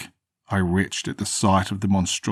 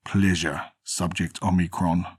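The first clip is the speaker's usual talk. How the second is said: put-on Russian accent. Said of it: "snarled in a heavy Russian accent".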